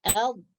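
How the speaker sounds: dhad with tongue tip touching up top; demonstrated dhad sound. Shown as a demonstration. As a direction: sound out a single dhad for learners. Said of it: "dia menyentuh atas".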